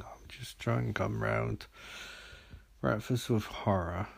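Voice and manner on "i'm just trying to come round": soft, sleepy early-morning murmur; drowsy and quiet, still coming round; barely awake. Real, not acted. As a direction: talk like you've just woken up in bed. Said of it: "I'm barely awake".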